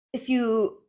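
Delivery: talking while holding down a pet; strained, distracted by a squirming dog; wrestling with dog. Real, not acted. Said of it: "I'm wrestling with my dog right now".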